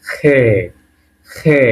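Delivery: "খে", rasped খ from inside the throat; sound from the throat. Shown as a demonstration. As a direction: say "খে" with a throaty খ, vowel held. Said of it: "একটু গলার ভিতর থেকে".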